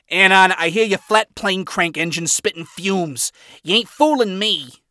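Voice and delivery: unbothered, knowing character voice; Angel flat tone. Acted. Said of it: "tone flat".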